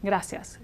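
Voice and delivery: Gracias as gra-syas, two syllables; gracias, ia blended to ya. Shown as a demonstration. Teacher modelling two-syllable Gracias. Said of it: "two syllables".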